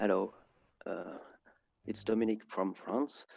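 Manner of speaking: very soft, faint, too quiet voice. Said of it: "Can you speak a bit louder".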